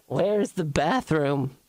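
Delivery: slow lost-tourist voice; Doris voice. Acted. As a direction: ask it slowly as lost Doris. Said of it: "Doris is lost in a foreign country bit".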